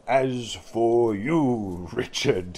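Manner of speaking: slow, drawn-out pleased address; beaming. Acted. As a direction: turn to him with pride. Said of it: "he beamed".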